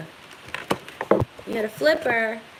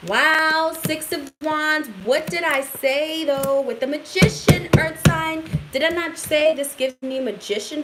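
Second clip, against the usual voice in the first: higher and louder, thrilled at the card; excited; 4 semitones higher, 3 dB louder than usual. Real, not acted. Tarot reader thrilled that her Magician call came true, excited. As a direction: burst out with real delight at the card. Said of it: "Sorry, guys, I get excited".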